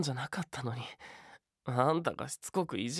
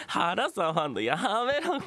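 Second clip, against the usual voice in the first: being tickled; 3 semitones higher, 4 dB louder, slower than usual. Acted. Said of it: "くすぐったい".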